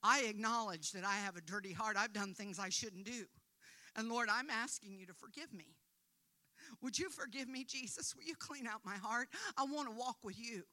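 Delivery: a gentle model prayer, spoken for them; sample prayer. Shown as a demonstration. Preacher modelling a prayer of repentance for the congregation, gently. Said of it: "you say something like this".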